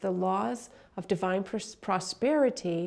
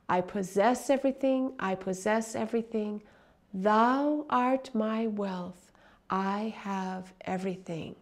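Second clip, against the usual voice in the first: slow, fervent prayer-like recitation; devotional affirmation. Acted. Teacher reciting an affirmation to listeners, slow and fervent. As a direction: intone each line like a sacred vow.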